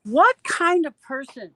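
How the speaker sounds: indignant outrage. Real, not acted. Ranting about a man who mocked her son, indignant. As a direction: demand to know what's wrong with him.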